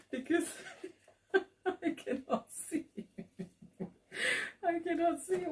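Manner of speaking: high-pitched giggling through the words; real laughter breaking into the line; laughing. Real, not acted. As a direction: laugh helplessly while you say it, almost to tears. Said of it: "I don't know why I'm laughing".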